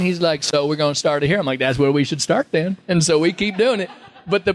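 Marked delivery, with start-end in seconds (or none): 0.4-1.4 relaxed Southern actor's line; Matthew McConaughey. Retold or imitated. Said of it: "every time he does a line". 1.6-2.8 lightly mimicked Texan twang; copied Texan accent. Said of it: "he's gonna think I'm doing his accent".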